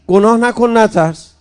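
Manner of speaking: firm telling off. Retold or imitated. Imam Ali telling the frightened man not to sin, firm and loud. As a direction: lay down the rule firmly to the fearful man.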